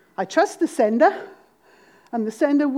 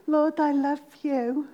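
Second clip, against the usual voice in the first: routine prayer; 4 dB quieter, slower than usual. Acted. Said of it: "How many of us say".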